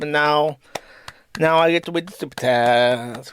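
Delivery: lisping childish voice, lightly put on; mocking baby talk. Streamer mocking a rival reading super chats, childish lisp. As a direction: talk like a toddler showing off.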